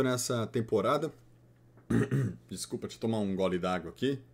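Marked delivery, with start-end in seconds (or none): 1.9-2.5 clearing a snack from the throat. Real, not acted. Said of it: "O salgadinho desceu no buraco errado". 2.5-4.2 choking on snack. Real, not acted. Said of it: "O salgadinho desceu no buraco errado".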